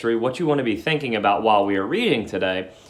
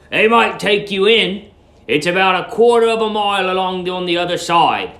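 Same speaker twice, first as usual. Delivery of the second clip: porter's voice; 8 semitones higher, 6 dB louder than usual. Acted. The porter points Billy down the road, loud and high. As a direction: call it out like a helpful porter.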